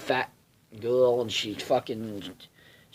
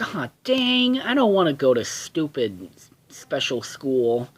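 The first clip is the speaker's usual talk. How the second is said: put-on whining kid; 2 semitones higher than usual. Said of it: "Milo's like".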